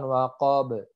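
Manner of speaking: waqab with a short echo after the b; bounced final b. Shown as a demonstration. Teacher shows the bounce at the stop, echoed b. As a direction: release the b of waqab with a tiny "uh". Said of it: "Jadi dipantulkan".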